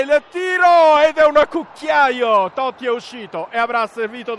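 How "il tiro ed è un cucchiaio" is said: louder, slow, drawn-out call; breathless italian goal commentary. Real, not acted. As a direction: stretch out the chip with a shout. Penalty chip called live.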